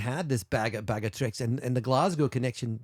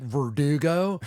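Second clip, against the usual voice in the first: put-on Jersey accent; 3 semitones higher, 3 dB louder, slower than usual. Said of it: "She's like".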